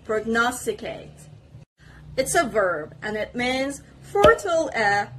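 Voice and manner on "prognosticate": "prognosticate" with the stress on "nos"; careful teacher's model of "prognosticate", leaning on "nos"; second-part stress. Shown as a demonstration. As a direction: say "prognosticate" clearly, second syllable strongest. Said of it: "the stress is on the second part".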